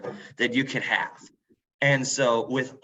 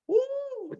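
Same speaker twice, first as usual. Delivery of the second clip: high woo. Acted. Mock noise describing the Puritans.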